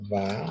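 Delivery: VA as one isolated syllable. Shown as a demonstration. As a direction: set "va" apart, counting it off. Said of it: "ahí hay otra". ("va" como sílaba suelta)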